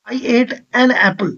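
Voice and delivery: very slow, word by word; slow demo reading. Shown as a demonstration. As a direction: spell it out slowly for the class. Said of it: "teacher reads out the example sentence". (धीरे-धीरे, एक-एक शब्द साफ़ बोलते हुए)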